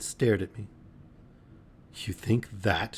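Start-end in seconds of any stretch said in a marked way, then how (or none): 1.9-3.0 slow hushed question; soft whisper. Acted. Girl whispering to him in disbelief. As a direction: breathe it in disbelief. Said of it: "she whispered".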